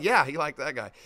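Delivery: low, settled reply to the outrage; matter-of-fact confirmation. Acted. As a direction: answer the disbelief with an unbothered yes. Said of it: "And it's like".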